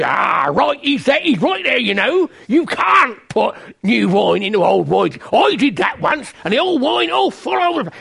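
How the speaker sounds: loud, hammed-up Jewish accent; mock Jewish accent. Preacher joking to congregation, voicing a listener in a hammed-up Jewish accent. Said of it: "an authentic Jewish, uh, accent".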